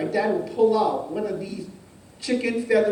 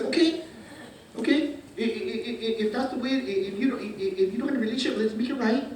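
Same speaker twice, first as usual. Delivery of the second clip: stammered, patient reassurance; calm, accommodating; 3 semitones higher than usual. Acted. God working patiently with Moses, calm. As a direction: talk someone round patiently. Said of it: "He was calm. He worked with Moses".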